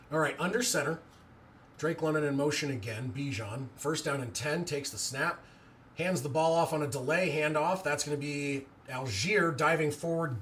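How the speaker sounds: live play-by-play. Acted. Streamer calling the delay handoff live, steady play-by-play. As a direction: call the handoff as it unfolds.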